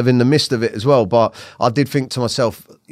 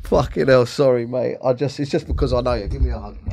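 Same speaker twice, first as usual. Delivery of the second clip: apologising while holding back tears; really choked up, trying to keep it together. Real, not acted. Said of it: "that really choked me up".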